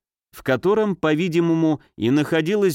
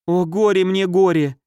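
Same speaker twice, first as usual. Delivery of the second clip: loud, higher wail of grief; despairing wail; 6 semitones higher, 4 dB louder than usual. A narrator's reading. Mother in despair over her daughter, loud wail. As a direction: cry it out as if sobbing. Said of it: "от отчаяния и удушающих рыданий".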